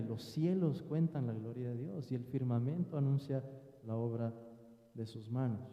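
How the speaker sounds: recitado. Shown as a demonstration. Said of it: "pueden empezar el Salmo".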